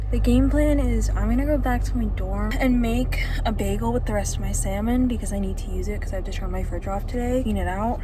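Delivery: breathless while walking; out of breath. Real, not acted. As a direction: talk while catching breath. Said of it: "I'm out of breath".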